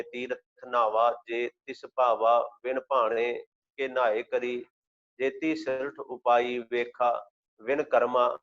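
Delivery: measured, devotional reading of gurbani; slow scripture recitation. Acted. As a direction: recite each phrase slowly and reverently.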